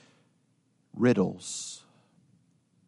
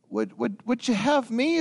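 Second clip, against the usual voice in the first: afraid; 10 semitones higher than usual. Acted. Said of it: "he's afraid".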